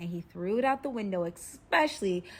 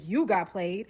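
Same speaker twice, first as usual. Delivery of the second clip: incredulous captor; 4 dB louder, slower than usual. Retold or imitated. Captor doubting the captive's complaint, incredulous. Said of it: "he's like".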